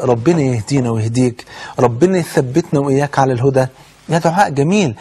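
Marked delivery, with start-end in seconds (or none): 0.0-3.7 sincere prayer. Shown as a demonstration. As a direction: pray for him kindly, including yourself. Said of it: "لما أدعي له كده".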